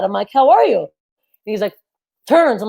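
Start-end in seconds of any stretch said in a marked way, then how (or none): 0.3-0.8 high, louder hello to a date; mock enthusiastic; overeager greeting. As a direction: greet them too brightly, pitched up. Acts out greeting her date.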